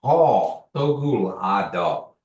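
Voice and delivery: Paul Toguru a dog said slowly; model answer. Shown as a demonstration. Teacher modeling the answer to students, slow. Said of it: "you can also say".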